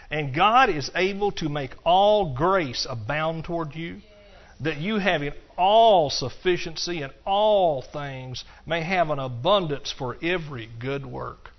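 slow, measured scripture reading with sermon emphasis. Acted. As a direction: read each phrase slowly and deliberately. Reads scripture aloud in sermon.

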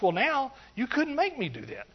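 usual speaking voice

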